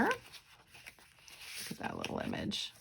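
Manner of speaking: soft, slow breathy awe; whispered to the viewer, slow and adoring; hushed admiration. Real, not acted. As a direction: lean in and marvel quietly. Admiring a vintage picture.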